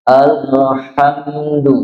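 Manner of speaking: slow "alhamdu", the tongue tip bending on the l; bent tongue l. Shown as a demonstration. Teacher showing inhiraf, slow "alhamdu" with bent l. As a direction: draw out "alhamdu", letting the l veer aside. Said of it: "membelok, ya".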